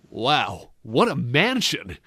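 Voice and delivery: lightly imitated slow, generic hero; Albert Wesker. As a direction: stretch it out with mock awe. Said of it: "sounds a bit like Albert Wesker".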